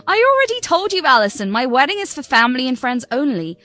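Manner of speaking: entitled, sharp bride telling her stepmother off; bratty bride. Acted. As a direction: brush her off like she's nothing.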